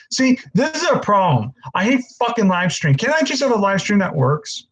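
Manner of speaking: fed up with the broken stream, let it out; annoyed streamer ranting at his internet; real frustrated rant. Real, not acted. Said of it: "I'm getting angry".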